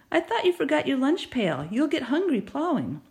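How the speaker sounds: a hint of grandma fussing over a farmhand; grandma reminding her son about lunch; lightly voiced grandma. A narrator's reading.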